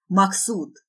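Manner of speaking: loud, commanding call; forceful acted summons; thunderous shout. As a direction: bellow the name as an order. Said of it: "громогласный крик".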